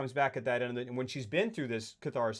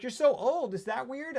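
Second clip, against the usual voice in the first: tactless mother; 10 semitones higher, slower than usual. Acted. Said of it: "And she's like".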